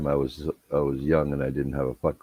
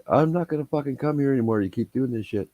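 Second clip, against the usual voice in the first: higher, exasperated complaint; fed-up threat; 9 semitones higher than usual. Retold or imitated. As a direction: whine a fed-up threat never to come back. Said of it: "he's like".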